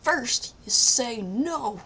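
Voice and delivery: cartoon public-service advice voice; Sonic. Friend as cartoon hedgehog advising kids, mock-instructive voice. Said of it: "Thank you, Sonic".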